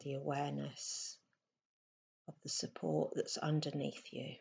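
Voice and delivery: softly spoken meditation guidance with long pauses; unhurried, slightly hushed meditation voice; guided meditation. Acted. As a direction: guide them gently into stillness, leaving space between phrases.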